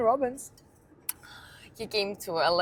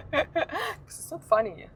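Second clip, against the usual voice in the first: high, laughing till near tears; 6 semitones higher than usual. Real, not acted. Telling friends about the watch, laughing helplessly. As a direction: crack up through the words.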